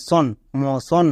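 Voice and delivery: "সন, মোশন" said slowly, ending "tion" as "shun"; slow pronunciation demo. Shown as a demonstration. Teacher models a word ending for students, slow and clear. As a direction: stretch out "মোশন" so every sound is clear. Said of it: "তখন এর উচ্চারণ হবে সন".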